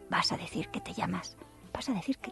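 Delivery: soft, hushed whisper; secretive whisper. Acted. The Lie telling Truth her new name, hushed.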